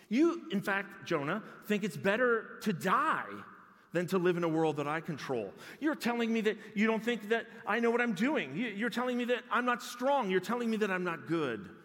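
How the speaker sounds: preacher voicing God's firm rebuke; God rebuking Jonah. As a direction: drive each charge home harder. God confronting Jonah, voiced.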